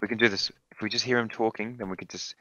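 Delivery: whispering. Real, not acted. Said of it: "shh, shh, shh".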